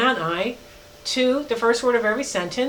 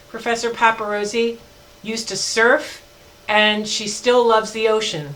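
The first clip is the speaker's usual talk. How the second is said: slow, deliberate example sentence; dictating an example, each word spaced out; slow dictation. Shown as a demonstration. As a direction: read it out slowly for the class. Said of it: "So if I could say those in one sentence".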